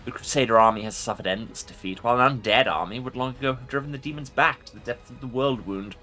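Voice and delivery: commanding undead lich voice; ancient rasping undead king. Acted. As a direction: speak as a proud ancient lich. Lich voice in a game playthrough.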